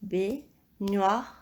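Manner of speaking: Baignoire. split slowly into syllables; measured, separated syllables in Baignoire. Shown as a demonstration. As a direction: repeat "Baignoire." with gaps between the syllables. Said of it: "où nous entendons le son".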